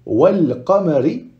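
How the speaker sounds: wal qamari with audible L; lam pronounced. Shown as a demonstration. Teacher contrasting the easy reading, lam pronounced. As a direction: keep the lam before the qaf. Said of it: "c'est simple".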